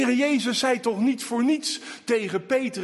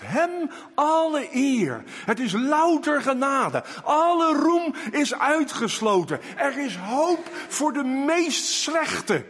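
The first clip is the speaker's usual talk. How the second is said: fervent preaching; 6 semitones higher than usual. Acted. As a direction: proclaim it to the congregation with full force. Preaching climax, shouting.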